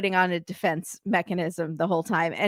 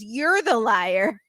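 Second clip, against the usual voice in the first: drawn-out copycat retort with a rising end; mock parroting; slower than usual. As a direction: parrot the accusation back, stretching it slowly. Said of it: "he just repeats everything".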